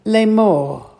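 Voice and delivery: slow, deliberate model pronunciation; one word, carefully drawn out; slow for repeating. Shown as a demonstration. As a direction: say it slowly for learners to repeat. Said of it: "as I say it slowly".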